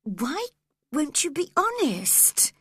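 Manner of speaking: put-on high, pleading girl's cry; cried out. A narrator's reading. Cathy cries out to Linton, high and pleading. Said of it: "cried Cathy at once".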